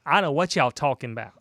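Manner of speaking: a lightly put-on sassy black woman voice; a mild impression of a black woman. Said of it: "do your black woman voice".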